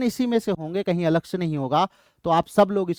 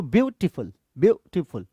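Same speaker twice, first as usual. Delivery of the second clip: "ब्यूटीफुल" in three separated beats; syllable by syllable; 3 semitones lower than usual. Shown as a demonstration. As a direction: pause inside "ब्यूटीफुल" to count syllables. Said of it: "जितनी बार रुको वही समझ लो". ("ब्यूटीफुल" को अक्षरों में तोड़कर)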